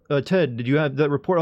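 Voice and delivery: mock newscaster hand-off; news anchor voice. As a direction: toss to Ted like an anchor. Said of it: "there's a pressing news announcement".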